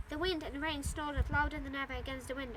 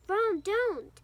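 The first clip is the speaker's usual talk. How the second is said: raised, louder cry of protest; angry rebuke; 6 semitones higher, 7 dB louder than usual. A narrator's reading. Hermione stops Ron lashing out at the cat, angry. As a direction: tell him off sharply, pitched up. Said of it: "said Hermione angrily".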